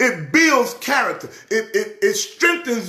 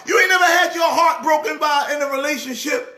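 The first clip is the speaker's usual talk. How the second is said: heated shout; 6 semitones higher than usual. Real, not acted. Heated rant about heartbreak.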